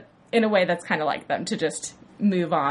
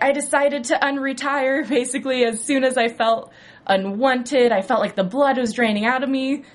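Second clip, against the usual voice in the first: higher, a touch louder mock-weak Frank; a hint of pale sickly Frank; lightly voiced Frank; 5 semitones higher, 3 dB louder than usual. Frank back in a wheelchair telling the gang, lightly mocked. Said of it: "and he's like".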